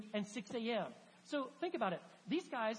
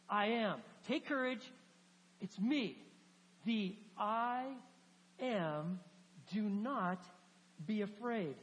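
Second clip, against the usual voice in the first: Jesus calling out; slower than usual. Acted. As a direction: call across the waves to reassure them.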